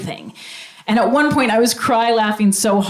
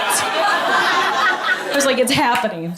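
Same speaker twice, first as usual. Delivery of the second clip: giddy whisper-thrill; 3 semitones higher, much slower than usual. Retold or imitated.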